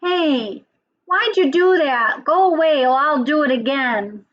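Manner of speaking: mildly heated storybook quarrel; arguing skunk. Acted. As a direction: argue back as a cross little skunk. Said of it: "now they're arguing".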